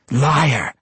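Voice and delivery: angry accusation. A narrator's reading. Matron mother rejects Tosin's story, accusing. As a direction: hurl the accusation at him.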